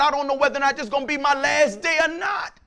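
shouting through tears; a desperate shouted sob; crying out. Acted. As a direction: cry it out in despair. Voiced weeper breaks into crying.

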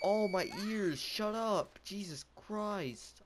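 high, drawn-out complaint; exasperated outburst. Real, not acted. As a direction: wail in protest at the noise. Player complains about piercing noise.

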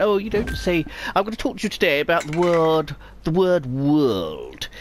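mock posh English headmaster voice; lightly voiced posh headmaster lecturing. Headmaster addressing East End school assembly in mock posh accent. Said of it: "this bloke was all posh".

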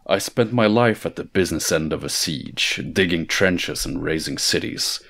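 a mild, dry, understated retort. Retold or imitated. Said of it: "dry way".

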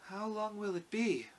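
put-on high-pitched girl's voice; little girl. A narrator's reading. Dorothy asks the Tin Woodman about the forest, high girlish voice. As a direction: lift the voice high for a questioning child.

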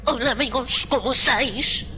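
deep pitch shifted. Pretend. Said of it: "ponga la voz distorsionada".

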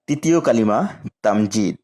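careful melodic recitation; beautiful recitation. Shown as a demonstration. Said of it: "খুব সুন্দর করে পড়ছি". (খুব সুন্দর করে তিলাওয়াত)

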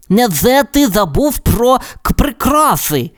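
high, sly little bird voice; sly canary. Acted. Tweety cuts off the angry cat, high and sly. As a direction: tease him out of his anger.

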